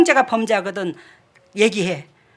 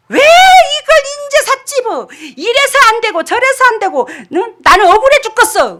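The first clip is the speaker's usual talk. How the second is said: indignant complaint; 10 semitones higher, 6 dB louder than usual. Retold or imitated. Church member protesting to the pastor, high indignant shout. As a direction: whine that it's unfair, loudly.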